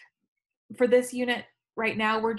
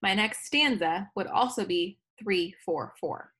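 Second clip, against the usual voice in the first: slow explanation. Shown as a demonstration. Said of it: "keep the same rhythm".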